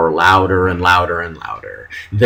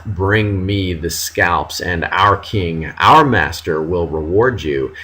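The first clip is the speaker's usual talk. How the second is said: British officer quote; 2 semitones lower than usual. Retold or imitated. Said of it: "The text coming out of the British guy's mouth".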